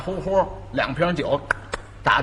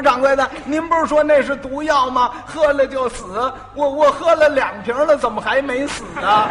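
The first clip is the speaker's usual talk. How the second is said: mock innocence; 5 semitones higher than usual. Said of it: "诚心还逗他".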